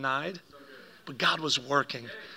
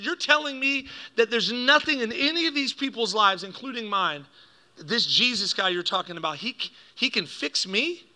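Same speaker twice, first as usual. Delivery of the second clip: raised pitch, incredulous demand; retelling a challenge; 5 semitones higher than usual. Retold or imitated. Dad challenges the pastor's promise, incredulous. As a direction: press the question, slowing at the end. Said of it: "starts yelling at the pastor".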